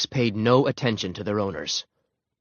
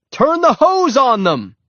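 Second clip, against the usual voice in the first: loud, high, drawn-out shout; shouted order; 14 semitones higher, 8 dB louder, slower than usual. A narrator's reading. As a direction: shout urgent instructions over the fight. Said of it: "shouted someone".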